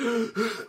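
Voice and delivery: imitated gasp for air; choking gasp. Shown as a demonstration. Host shows his attempt to clear sushi, imitated choking gasp. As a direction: gasp as if something is stuck in the throat. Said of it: "like that".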